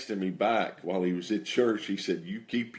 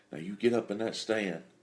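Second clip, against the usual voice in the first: put-on whispering. Retelling a guide's whispered orders at the stand: imitating someone whispering. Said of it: "he's even whispering".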